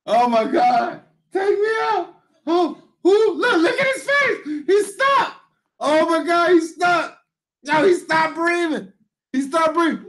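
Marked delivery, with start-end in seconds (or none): 1.3-10.0 high-pitched, wheezing laughter in the words; crying laughing. Real, not acted. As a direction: lose it completely while pointing at his face. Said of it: "I'm in tears, man".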